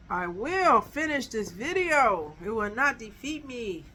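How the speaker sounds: playful stubborn resolve, drawn out; mock-defiant vow. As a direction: declare it with deliberate mock determination. Mock vow against the interrupting device.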